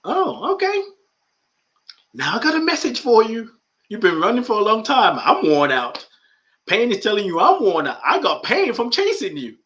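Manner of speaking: high, loud complaining voice; voice of the discomfort. Acted. Discomfort talking back to the meditator, high and loud. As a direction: speak as the worn-out pain, squeaky and loud. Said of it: "the discomfort itself goes".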